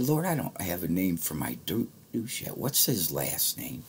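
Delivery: a hushed question to God in the car; hushed prayer. Retold or imitated.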